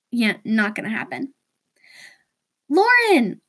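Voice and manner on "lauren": put-on high excited girly call; friend's high girly scream. A narrator's reading. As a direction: squeal her name from across the room. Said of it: "whose girly scream that was".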